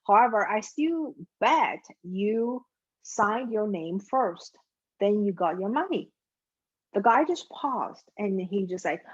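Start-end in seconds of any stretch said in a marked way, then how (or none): 0.1-6.1 even, composed reply; very calm. Acted. Teller answering the customer waving his cash, very calm. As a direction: answer patiently, unruffled by the boast. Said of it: "looked at him very calmly".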